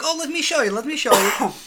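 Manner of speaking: high, loud eager mom voice; imitated mother. Imitating mom offering to show her gift, high eager voice. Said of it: "She's like".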